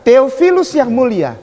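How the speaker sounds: firm, loud reading of "Theophilus yang mulia"; read aloud loudly. Shown as a demonstration. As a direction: read it out so everyone hears. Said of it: "Agak keras, Ustadz". (dibaca dengan suara keras dan tegas)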